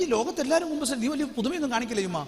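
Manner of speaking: mocking dialogue. Husband mocks his crying wife, fast and scoffing. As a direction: brush off her tears with a fast jeer. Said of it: "ചുമ്മാ dialogue ഇടുന്നുണ്ട്".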